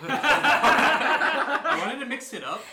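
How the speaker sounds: slow growly monster voice; Power Rangers putty voice. Acted. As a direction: drag it out like a putty. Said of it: "sounded like the putties from Power Rangers".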